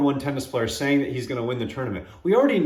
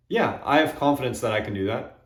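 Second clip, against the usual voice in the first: humble confidence. Shown as a demonstration. Speaker demos the humble answer, calm and steady. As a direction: state it simply without bragging.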